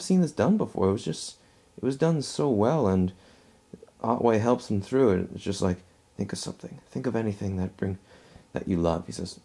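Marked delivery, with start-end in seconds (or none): 6.2-9.1 lightly acted, hushed reassurance; soft retold comforting. Otway helps a dying man through it, softly reassuring. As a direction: quote it softly, as if guiding someone through.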